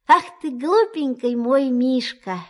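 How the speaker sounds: tender. Acted. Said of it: "таким ласковым голосом".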